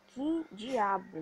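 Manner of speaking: loud, drawn-out exasperation; exasperated cursing. Real, not acted. Gamer cursing the game, exasperated. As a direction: drag the curse out slowly and loudly.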